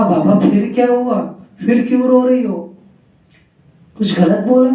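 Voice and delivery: high, insistent coaxing questions; a husband begging her to say it; pleading king. Acted. King Akbar pressing the weeping queen, high and pleading.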